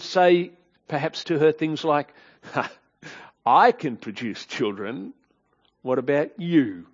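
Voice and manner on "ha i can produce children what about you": a touch of taunting scorn, slower; mocking rival. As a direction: lightly gloat over a childless woman. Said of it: "She would mock her".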